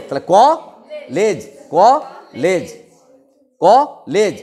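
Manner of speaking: ক and লেজ said apart with pauses; syllable-by-syllable split. Shown as a demonstration. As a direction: break কলেজ into ক and লেজ. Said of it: "slow motion".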